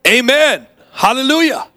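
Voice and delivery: high excited church shout, amen then hallelujah; mock shout. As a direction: cry it out like a boy caught up in joy. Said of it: "he just kinda shouted out".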